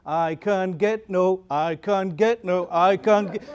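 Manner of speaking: slow, low skipping-record loop; stuck record. Acted. Scratched record repeating the same thing, looped monotonously. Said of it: "keep going over and over the same thing".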